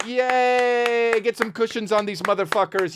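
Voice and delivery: high squealed yay; mock cheer. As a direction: whoop from the back pew. Heckling cheer in church bit.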